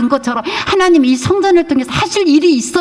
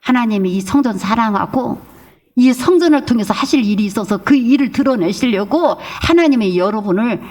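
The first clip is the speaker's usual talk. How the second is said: normal talking voice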